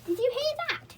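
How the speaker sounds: high alarmed cry; startled. A narrator's reading. Beth woken by the owl, startled. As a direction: jolt awake and call out.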